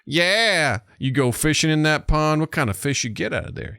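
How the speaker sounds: slow country American drawl; Andy America accent. Acted. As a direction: play a folksy American chatting about fishing. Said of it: "talking like that around the house".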